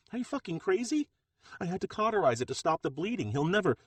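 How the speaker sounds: shrill with fury at his calm; outraged. Acted. Lena screaming at Bronco over the arm, outraged.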